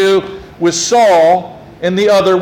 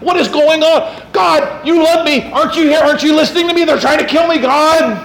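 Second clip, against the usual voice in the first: mock crying plea; 7 semitones higher than usual. Pastor voicing David's psalm, raised pleading cry. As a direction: cry out to God, half-acted. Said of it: "It's David crying and going".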